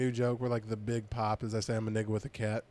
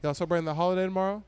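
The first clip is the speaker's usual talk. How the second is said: fast, sassy question with a rising end; sassy fast 'Y'all celebrating the holiday tomorrow?'; 4 semitones higher, much faster than usual. Retold or imitated. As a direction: ask it real cunty, quickly. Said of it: "real cunty".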